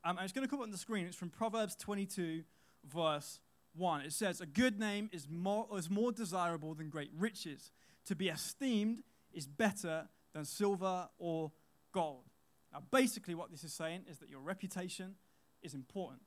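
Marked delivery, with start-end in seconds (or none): 4.4-12.3 slow, deliberate Bible reading; scripture reading. Acted. Slow reading of the proverb to the youth group. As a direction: read the verse out slowly to the youth group. Reads Proverbs verse aloud.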